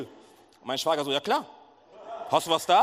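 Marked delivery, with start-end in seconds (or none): 1.1-2.8 eager yes. Retold or imitated. Brother-in-law eagerly accepts.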